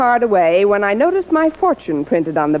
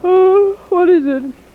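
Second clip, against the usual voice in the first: sudden high jolt, half-asleep; startled awake; 9 semitones higher, 4 dB louder, slower than usual. Acted. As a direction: snap out of sleep with a cry. Jolted awake by landlady.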